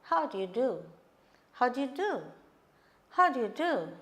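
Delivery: each "How do you do" dropping on the last "do"; greeting repeated with the tone coming down on "do"; falling intonation. Shown as a demonstration. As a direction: let the final "do" fall. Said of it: "this second one can be a falling intonation".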